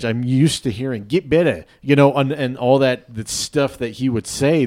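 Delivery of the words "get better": put-on trainer's slogan in a light South African accent; Steve Hess. Quoting the team trainer's slogan, light South African accent imitation. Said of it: "South African accents".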